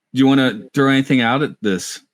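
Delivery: accidentally peaking the mic at the start; loud burst. Real, not acted. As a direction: burst in loud on the first words. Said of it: "our recording hit all elevens when I said that".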